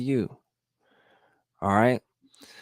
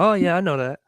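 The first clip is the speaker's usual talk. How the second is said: much higher, breezy Oh yeah I know that; bright knowing exclaim; 9 semitones higher, 5 dB louder, faster than usual. Shown as a demonstration. A vlogger mimicking how people casually claim to know, pitched up high. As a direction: toss it off high like it's obvious. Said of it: "We say that a lot".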